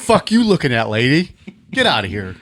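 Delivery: tough guy snarl. Pretend. Voicing thug to lady.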